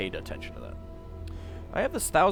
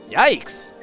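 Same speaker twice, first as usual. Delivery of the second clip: shocked high yelp; startled yelp; 7 semitones higher, 11 dB louder than usual. Acted. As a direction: squeak it out in alarm. Echo yelps in shock.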